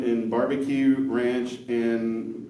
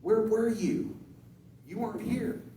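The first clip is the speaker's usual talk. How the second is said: mock angry boss; 10 semitones higher than usual. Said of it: "my boss called me in angry".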